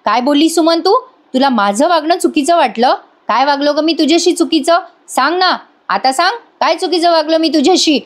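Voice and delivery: lightly acted angry husband demanding answers; Nagraj retold yelling. Husband confronting his wife over her complaint, mild retold yell. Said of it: "लगेच ओरडायला लागतो".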